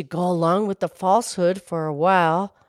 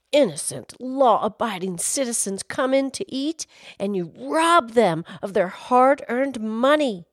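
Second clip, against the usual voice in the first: indignant rant; 3 semitones higher than usual. Acted. Fake outrage at restaurant.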